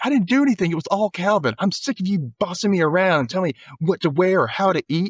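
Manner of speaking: high whiny complaint; Jeffrey turning on Calvin, high-pitched; whiny outburst. Retold or imitated.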